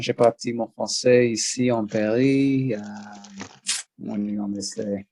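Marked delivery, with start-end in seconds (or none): 0.0-2.7 put-on French accent. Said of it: "put on the French accent if you want".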